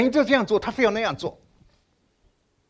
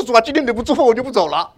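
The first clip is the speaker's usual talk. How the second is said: louder 主啊, pressing prayer with a rising 福; earnest insistent prayer; 4 semitones higher, 6 dB louder, faster than usual. Retold or imitated. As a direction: plead like refusing to let go. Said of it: "我说".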